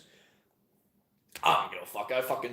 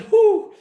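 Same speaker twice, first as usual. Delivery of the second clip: high, loud "whew" of disbelief; hammed-up high-pitched whoop; mock whoop; 13 dB louder than usual. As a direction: let out a piercing mock whew. Mocking the idea of British vacation.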